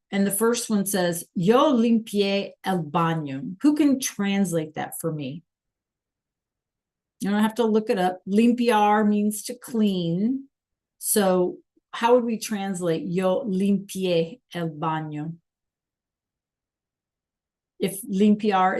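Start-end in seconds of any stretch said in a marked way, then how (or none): 1.3-3.6 slow, measured Spanish model sentence; slow teacher reading. Shown as a demonstration. Teacher reads sentence for class to translate. 13.1-15.4 slow, measured Spanish model sentence; slow teacher reading. Shown as a demonstration. Teacher re-reads sentence for translation.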